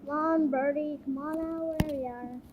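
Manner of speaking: soft coaxing to a bird; coaxing a wild bird. Real, not acted. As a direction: gently lure the bird out.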